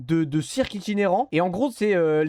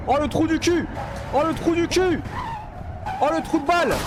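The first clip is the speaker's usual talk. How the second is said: real shocked yell; 8 semitones higher than usual. Real, not acted. Streamer screams at game scare.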